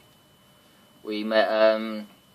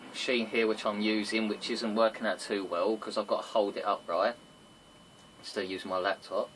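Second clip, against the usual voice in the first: covered microphone; 5 dB quieter than usual. Real, not acted. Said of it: "you're covering the microphone 'cause I can barely hear you".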